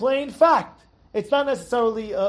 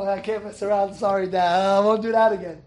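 put-on cowed child; 4 semitones lower than usual. Cowed child apologising to angry father.

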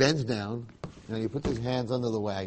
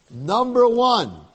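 delighted disbelief; 9 semitones higher, 8 dB louder, much slower than usual. Acted. Yaakov delighted at praise.

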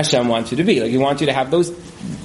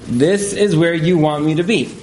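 slow and meant. Retold or imitated. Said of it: "literally me just saying it".

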